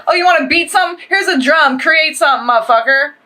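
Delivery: high, punchy retort to a bully; sassy comeback. Pretend. To the brow beaters, a defiant sassy retort. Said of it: "It's like".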